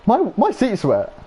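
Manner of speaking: high, slow, whining; whiny mock complaint. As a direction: drag it out like a disgusted teen. Retold complaint in car.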